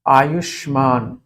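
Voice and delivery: आयुष्मान drawn out slowly, closed on n; halant ending in आयुष्मान. Shown as a demonstration. Teacher showing a halant word, आयुष्मान said slowly. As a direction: sound out आयुष्मान slowly to a final bare n. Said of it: "हलंत शब्द है".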